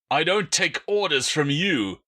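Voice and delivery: angry cry. Acted. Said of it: "the larger man cried".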